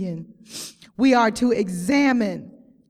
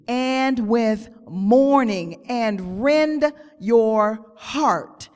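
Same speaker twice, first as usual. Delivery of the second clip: slow, drawn-out preaching of scripture, each phrase weighed; scripture reading; slower than usual. Acted. Preacher reading Joel to the church, slow and heavy. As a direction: lean into every word of the verse.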